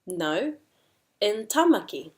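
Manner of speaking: detached NO, pause, then TAMAKI corrected; debating. Shown as a demonstration. Teacher models debating, NO then correcting to TAMAKI. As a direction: counter with "No", pause, emphasise "Tamaki". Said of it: "but we debate it".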